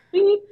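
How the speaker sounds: short imitated bleep; spoken censor beep. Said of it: "I don't know if you can edit this out".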